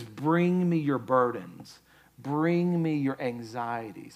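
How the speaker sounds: slow, drawn-out tender call; gentle invitation. Acted. Voices God inviting the burdened.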